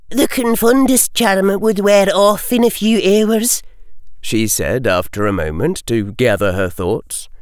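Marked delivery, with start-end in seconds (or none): 0.1-3.6 crisp, higher Scottish-tinged professor; McGonagall. A narrator's reading. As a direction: answer briskly like a strict teacher. McGonagall voiced.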